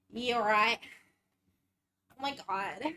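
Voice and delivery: put-on a light Valley girl accent, tired and breathless after burpees. Streamer doing a Valley girl accent for viewers after burpees. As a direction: play a winded Valley girl, lightly voiced. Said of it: "that's the Valley girl. Hope you enjoy the accent".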